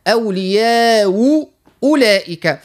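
"أولياء أولئك" with the first hamza softened; slow demo of "أولياء أولئك" with the hamza eased. Shown as a demonstration. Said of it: "كيف كيف نقول". (تسهيل الهمزة في "أولياء أولئك")

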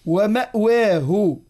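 ومأواه stretched slowly, with the hamza clearly sounded; slow recited ومأواه with a clear glottal stop; drawn-out recitation. Shown as a demonstration. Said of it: "إبداله للسوسي لا يخفى".

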